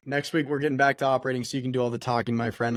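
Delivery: fast and out of breath. Real, not acted. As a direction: rush it, running short of air. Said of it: "I'm out of breath".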